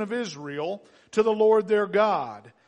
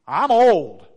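loud acted blurt; big booming exclamation; blunt declaration; 12 dB louder than usual. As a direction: belt out the admission. Repeats blunt admission as Zechariah.

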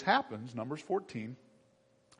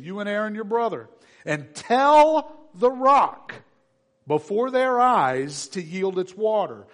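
loud, measured Bible reading; scripture reading; 5 semitones higher, 7 dB louder than usual. Acted. Preacher reading Numbers twenty to the congregation, proclaimed. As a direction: proclaim the verses to the church.

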